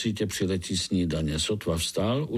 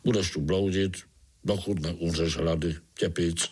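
gloomy; 4 semitones lower than usual. Acted. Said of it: "odpověděl žížalák ponuře".

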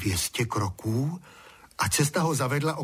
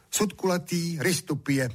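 serious voice; 6 semitones higher than usual. A narrator's reading. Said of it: "odpověděl vážným hlasem Honzík".

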